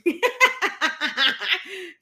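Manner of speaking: a high, loud laugh at her own slip; real laugh. Real, not acted. Host laughing at her own accidental pun, real laugh.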